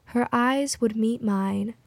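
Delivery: measured poetry reading, pausing between phrases; poem recital. Acted. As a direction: recite it evenly, line by line. Poem read aloud to music.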